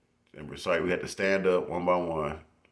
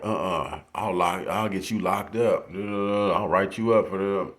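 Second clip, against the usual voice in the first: mock angry teacher; 2 semitones higher, 5 dB louder, slower than usual. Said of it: "When he went off".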